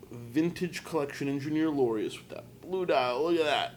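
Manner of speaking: tired, rough hungover voice. Real, not acted. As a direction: talk through a hangover. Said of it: "I'm kinda hungover".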